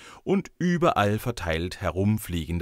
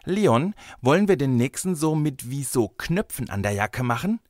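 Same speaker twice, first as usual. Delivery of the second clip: put-on high, eager little girl; enthusiastic; 6 semitones higher, 3 dB louder than usual. A narrator's reading. Girl suggests craft idea to her friend, enthusiastic. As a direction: pitch a new idea with childlike enthusiasm. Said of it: "Mareikes begeisterte Stimme".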